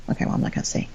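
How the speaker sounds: breathy whisper, holding back the insult; whispered aside. Real, not acted. Catching herself before insulting her ex, whispered. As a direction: drop to a whisper and bite it back.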